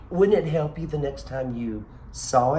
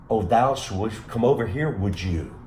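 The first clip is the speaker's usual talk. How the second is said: mock Shakespearean. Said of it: "he did not put 'em in the way we would".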